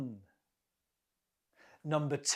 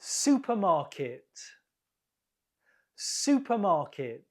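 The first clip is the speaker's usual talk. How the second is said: "Supermarket" stressed on SU; stress on first syllable. Shown as a demonstration. Teacher modelling a quiz word, "Supermarket" stressed on its first syllable. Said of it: "The first syllable is stressed".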